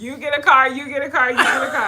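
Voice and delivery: lightly imitating a talk-show giveaway; playful hammed-up prize announcement; Oprah. Mock giveaway to the viewers, lightly playing the gift-giving host. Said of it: "Okay, Oprah".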